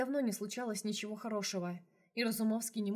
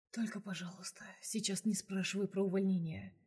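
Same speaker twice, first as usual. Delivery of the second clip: breathy whisper, winded after exertion; slightly out of breath. Acted. Vlad spent after sex asking Lesya, winded whisper. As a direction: whisper it still catching breath. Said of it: "немного задыхаясь".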